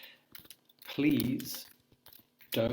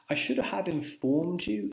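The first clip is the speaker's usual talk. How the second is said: higher, lifted alternative; alternative phrasing; 8 semitones higher, 3 dB louder, slower than usual. Shown as a demonstration. Teacher suggesting a more formal option, voice raised. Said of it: "potentially a little bit too formal".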